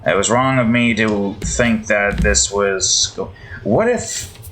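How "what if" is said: high squeak. Real, not acted. Sudden high musing.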